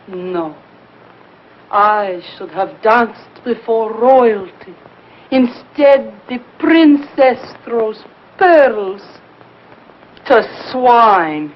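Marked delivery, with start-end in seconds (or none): 1.7-11.5 slow, dramatic declaiming of "royalty" and "pearls"; grand lament. Acted. Vain dancer laments her fate, slow and theatrical. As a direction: drag out the self-pity like a tragic diva.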